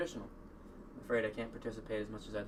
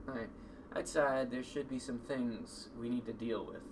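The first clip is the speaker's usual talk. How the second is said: ordinary talk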